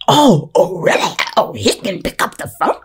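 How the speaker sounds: mock outrage with a squeezed voice; hammed-up muffled indignation; silently popping off. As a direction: act out a stifled freak-out. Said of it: "I'm popping off or whatever, like, silently".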